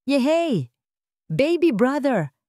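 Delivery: put-on five kids shouting with glee, drawn out; children cheering. A narrator's reading. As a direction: cheer like delighted little girls. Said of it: "sigaw ng lima".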